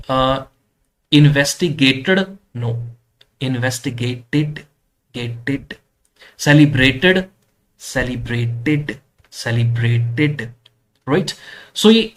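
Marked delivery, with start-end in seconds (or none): 1.1-2.2 "इन्वेस्टिगेटेड" said louder with a clear "-id" ending; model word "इन्वेस्टिगेटेड". Shown as a demonstration. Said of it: "इड pronounce होगा वो". 6.4-10.5 "सेलिब्रेटेड" spelled out slowly, ending in "-id"; model word "सेलिब्रेटेड". Shown as a demonstration. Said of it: "इड pronounce होगा वो".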